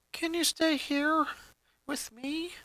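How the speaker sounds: put-on boy asking his girlfriend to stay, slowly. A narrator's reading. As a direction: ask shyly, drawing it out. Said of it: "Lincoln asked slowly".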